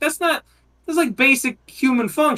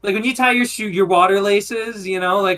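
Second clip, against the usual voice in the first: stoner dude voice. Retold or imitated. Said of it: "Oh, man, look at the water".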